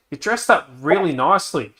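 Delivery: butter up a customer, imitated; imitated sweet talk. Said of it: "trying to sweet talk me".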